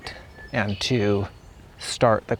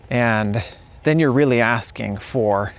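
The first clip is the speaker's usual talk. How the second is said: normal talking voice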